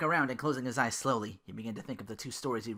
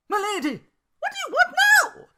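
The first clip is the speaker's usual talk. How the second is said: high, loud angry snap; 13 dB louder than usual. Acted. Belle snapping at Duke, high and loud. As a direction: bark it at him, fed up. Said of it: "Belle snapped more angrily".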